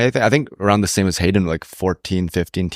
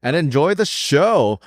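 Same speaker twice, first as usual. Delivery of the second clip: put-on Canadian accent; 5 semitones higher than usual. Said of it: "in your best Canadian accent".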